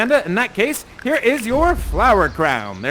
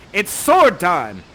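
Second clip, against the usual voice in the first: slow, flat mock-heroic; deadpan sword time; 6 dB louder, much slower than usual. Host joking as Ferdinand ready to fight. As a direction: drag out the line for comedy. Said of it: "He says".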